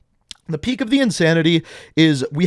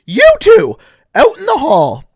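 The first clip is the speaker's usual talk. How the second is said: much higher, louder shrieking yell; retold teacher scream; 11 semitones higher, 7 dB louder than usual. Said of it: "she screams".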